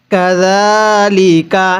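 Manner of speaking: কাযালিকা with the যা held one alif; short lengthening in কাযালিকা; one-beat madd. Shown as a demonstration. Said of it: "এক আলিফ টেনে পড়ব".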